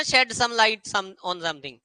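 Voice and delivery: very slow, word by word; teacher introducing a phrase; slow phrase demo. Shown as a demonstration. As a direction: lay out shed some light slowly. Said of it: "एक और phrase भी बनता है".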